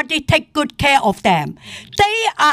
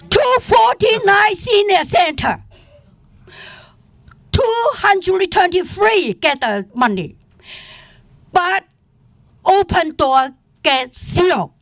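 angry outburst; 3 semitones higher than usual. Real, not acted. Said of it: "So that's why I'm so angry".

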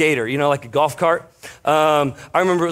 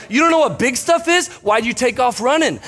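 retold disbelief; 8 semitones higher than usual. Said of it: "I'm like".

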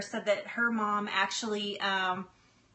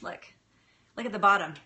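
ordinary talk, nothing marked

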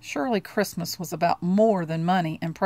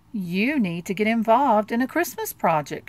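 declaring; 3 semitones higher, 4 dB louder than usual. Acted. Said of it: "she declared".

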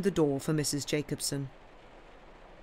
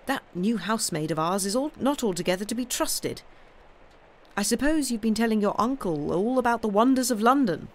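higher-pitched, lightly voiced aunt; chatty aunt; 6 semitones higher, 4 dB louder than usual. Aunt chatting to Sam and his uncle, sociable. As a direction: make sociable family conversation.

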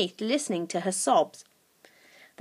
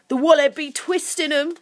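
higher, louder creature voice; wicked creature; 5 semitones higher, 5 dB louder than usual. A narrator's reading. Second creature joins in the threat, wickedly. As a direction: relish the twisting like a goblin.

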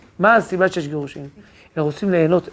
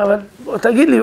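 acted-out plea, rising higher; retold pleading; 4 semitones higher than usual. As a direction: plead mildly for an answer. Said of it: "בכל אופן התחנן".

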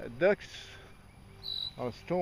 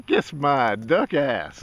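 mocking fake Chinese accent, louder and slow; 7 dB louder, much slower than usual. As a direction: repeat the duck's line in a put-on Chinese accent. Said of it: "with a Oriental accent".

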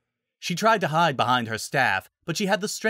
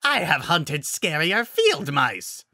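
slow, higher-pitched monster sneer; mocking pack leader, slow and raised; scornful werewolf alpha; 6 semitones higher, 3 dB louder, slower than usual. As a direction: draw out the contempt like a beast. Alpha scorns the timid druid.

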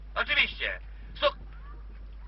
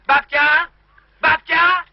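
louder, higher shout into the receiver; calling loudly; 4 semitones higher, 7 dB louder, much slower than usual. Real, not acted. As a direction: yell down a bad phone line for grandma. Shouting over a bad phone line. (głośne wołanie do słuchawki)

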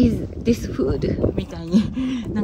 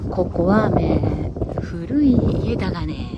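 名古屋弁で; Nagoya dialect; 5 semitones lower, 4 dB louder than usual. Shown as a demonstration. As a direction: say it like a Nagoya local. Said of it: "okay, I'll speak 名古屋弁".

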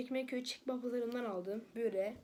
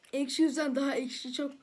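eating sour candy; 5 dB louder than usual. Real, not acted. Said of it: "konuşamıyorum, o kadar ekşi ki".

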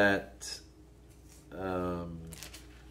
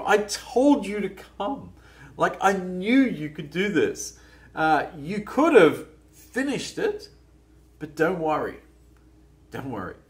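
affirming encouragement. Pretend. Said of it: "certainly not a scolding or a criticism".

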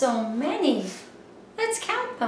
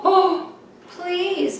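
higher, pleading little plea; begging spider; 7 semitones higher than usual. Acted. Spider begs the frog to let him swim, lightly pleading. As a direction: beg sweetly like the spider. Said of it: "begged the spider".

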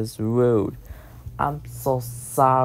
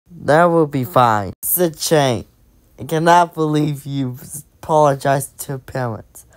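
a touch louder, mildly stern parent voice; lightly voiced parent, firm and pleased; parent's reply; 5 dB louder than usual. Parent answers the apology.

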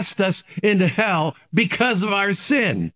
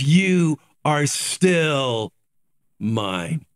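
tender Jesus voice; 4 semitones lower, much slower than usual. Acted. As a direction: lean in and reassure like a gentle saviour. Jesus voiced speaking to believers.

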